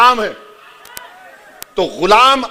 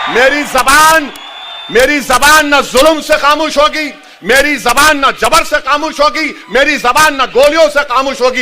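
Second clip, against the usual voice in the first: fiery preaching; 2 semitones higher than usual. Acted. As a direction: preach it at full force to the crowd. Fiery oratory over music. (जोशीली तक़रीर, ज़ोर से)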